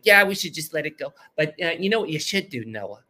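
lightly voiced New York Jewish mother; a hint of a New York Jewish lady; New York Jewish mom. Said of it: "she's a New York Jewish lady".

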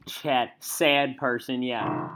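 lightly voiced loud country host; cowboy host voice. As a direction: greet like a folksy sports guy. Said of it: "Chad, Chad Sports Person".

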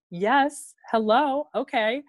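perky, high-pitched retold reply; eager acceptance. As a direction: act out jumping at an invitation. Acts out eager yes to date.

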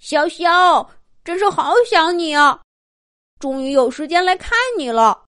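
high, fond little-dinosaur voice; affectionate. Acted. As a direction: greet an old friend fondly. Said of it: "亲热地说".

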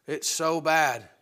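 slow, soft and downcast; a low, soft groan of despair about the news; gloomy complaint. Retold or imitated. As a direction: drag it out like a defeated sigh. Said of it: "they go".

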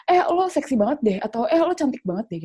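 imitated catcaller. Friend suddenly catcalls her on the street, imitated catcall. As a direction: imitate a blurted, over-familiar compliment. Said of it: "tiba-tiba kayak".

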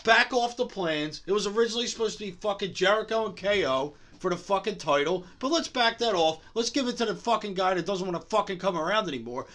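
worked-up tirade with sarcastic jabs; going off. Real, not acted. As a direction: rant emphatically, leaning on the swearing. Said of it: "I'm gonna go off".

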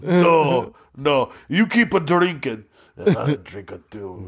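put-on comic Russian accent. Comic plays Russian Kool-Aid urging drinks, Russian accent. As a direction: put on a broken-English Russian voice. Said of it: "Yeah, Russian".

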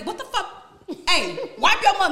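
high mock shocked friend; imitating friend. Quoting her friends reacting to her crying, laughing. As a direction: do the tough best friend, laughing. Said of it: "My friends hardcore. They be".

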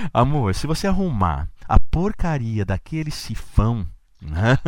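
imitating his wife, slightly altered voice; playful woman's voice from a man; man doing a woman's voice. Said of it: "olha eu imitando mulher".

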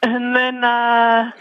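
slow, dreamy savoring of the food. Acted. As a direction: draw out each word like tasting it. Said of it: "That almost sounded orgasmic".

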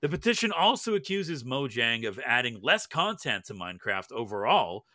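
steady newsreader delivery; news read. Acted. Reads the news segment.

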